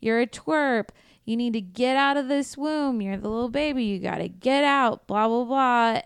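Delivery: mock-taunting a scared child; taunting adults. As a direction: jeer at her like a bully, half-acted. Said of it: "They're like".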